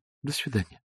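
dry, offended goodbye; offended Zosya dismissing Ostap dryly; curt. A narrator's reading. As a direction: cut him off coldly. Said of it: "сухо молвила Зося".

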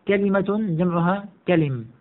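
كلمة as "ka-li-ma", كلم as "ka-lim"; kalima, plural kalim. Shown as a demonstration. Teacher pairs singular and plural, pronounced kalima and kalim. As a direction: keep the i after l in كلمة and كلم. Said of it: "على وزن نبقة".

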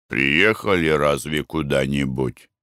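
low, sleepy question; drowsy husband. Acted. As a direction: ask it barely awake. Husband just woken, drowsy.

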